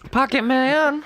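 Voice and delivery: high laughing and slow. Pretend. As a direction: drawl it through laughter. Laughing joke repeat.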